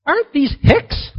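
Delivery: high, loud sneering question from the crowd; mock the Galileans as hicks, loudly; scornful crowd voice. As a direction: scoff like a snobbish onlooker. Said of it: "They're going".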